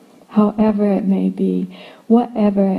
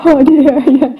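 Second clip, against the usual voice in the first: weary parent; 6 semitones higher, 4 dB louder than usual. Retold or imitated. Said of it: "waking me up in the middle of the night".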